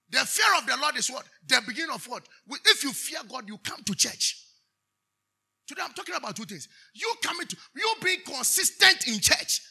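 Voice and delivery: high preacher's exhortation; emphatic preaching. Real, not acted. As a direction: press the point on the congregation. Preaching at full force.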